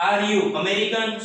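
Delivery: slow, deliberate teacher question; slow model question. Shown as a demonstration. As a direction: draw it out word by word. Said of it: "teacher models the question". (ધીમે ધીમે પૂછાયેલો પ્રશ્ન)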